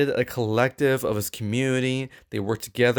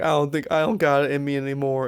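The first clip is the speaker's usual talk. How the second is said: imitating crying DiCaprio; 4 semitones higher than usual. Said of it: "He's like".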